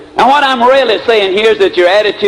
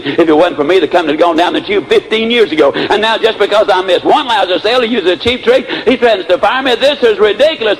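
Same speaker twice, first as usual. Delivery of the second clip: retold upset. Sales manager griping about being threatened, rising mock indignation. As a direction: let the mock grievance build and rise. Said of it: "Oh, he was upset".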